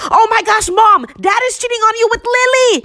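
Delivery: shrill-pitched scream held at talking volume; retold scream. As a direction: re-enact screaming shocking news to mom. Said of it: "I screamed".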